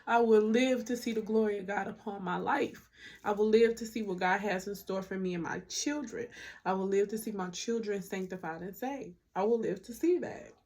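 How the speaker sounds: firm, rising preacher-like declarations; faith declaration. Acted. To her viewers, declaring God's promises, preacher style. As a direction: proclaim it like a sermon.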